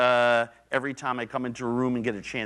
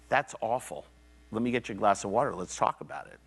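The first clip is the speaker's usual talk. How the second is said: gentle empathy; 2 semitones lower, much faster than usual. Shown as a demonstration. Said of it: "Wall comes down".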